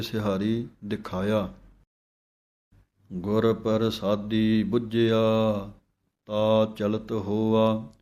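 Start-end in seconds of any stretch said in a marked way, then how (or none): 3.1-7.9 slow chanted reading of the hymn; scripture recitation. Shown as a demonstration. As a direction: recite the verse slowly and devoutly.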